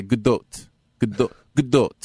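Godot as "guh-DOTE", repeated singly with pauses; demonstrated correct pronunciation. Shown as a demonstration. Host drilling co-hosts on a name, Godot as "guh-DOTE". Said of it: "Like that. You have to say it like".

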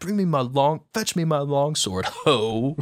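offhand, tossed-away "ho" at the end; dismissive. Shown as a demonstration. Retelling how the line should sound, dismissive and casual. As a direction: brush it off like a casual aside. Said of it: "a dismissive".

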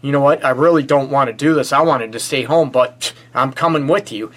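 mock whine of a grudging partner; whiny and pouty. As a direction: whine it like a sulky partner dragging their feet. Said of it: "to be whiny and pouty and say".

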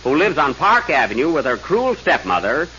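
ordinary delivery

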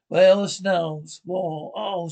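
loud slow monster snarl. Acted. Monster snarls at the children, loud slow snarl. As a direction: snarl out like a beast closing in.

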